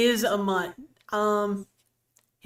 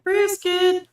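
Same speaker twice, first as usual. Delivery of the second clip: mock outcry; 9 semitones higher, 5 dB louder than usual. Echoes brisket remark, calling out.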